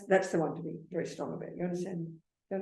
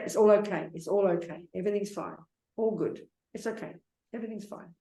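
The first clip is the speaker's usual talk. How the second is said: fading reassurance. Shown as a demonstration. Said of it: "So try to say".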